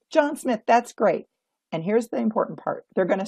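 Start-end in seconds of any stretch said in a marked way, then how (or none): 0.1-1.3 cheerful greeter. Shown as a demonstration. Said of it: "they're gonna say".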